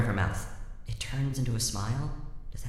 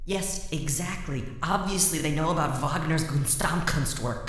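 higher, mocking repeat of yes exactly; mocking echo; 4 semitones higher than usual. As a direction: echo it back sarcastically. Inner voice mocking her.

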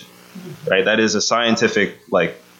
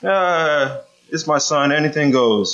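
higher, shrugging "anything goes" father; permissive father; 6 semitones higher, slower than usual. Retold or imitated. Preacher mimicking a lax father, higher and careless. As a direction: play the dad who lets everything slide.

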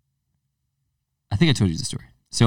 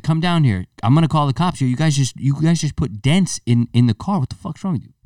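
higher-pitched retold telling-off; mock freaking out; 4 semitones higher than usual. Storyteller re-enacting yelling at kids on a porch, mock outrage. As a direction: replay yourself ordering the culprits about, worked up but not shouting. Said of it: "freaking out on him".

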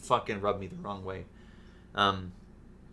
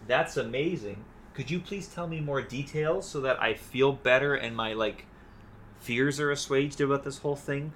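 lightly voiced relieved father; mock gushing thanks; mock grateful Barrett; 3 semitones higher than usual. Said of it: "And then when he's like".

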